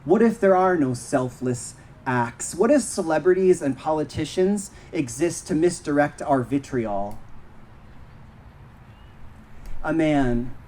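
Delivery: measured poem recital with long pauses; poem reading. Acted. Poet reading to a park audience, measured recital. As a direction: read each line deliberately, then let it hang. Reads their poems aloud.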